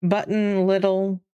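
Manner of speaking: "little" with a D sound for T; "Button" with swallowed T, "little" as "liddle"; Michigan soft T. Shown as a demonstration. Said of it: "it's a D sound instead of a T".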